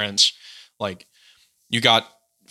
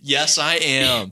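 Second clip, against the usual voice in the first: very slow, lazy California drawl; echoing the instructor; much slower than usual. Retold or imitated. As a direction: repeat it even more leisurely. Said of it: "best Cali impression".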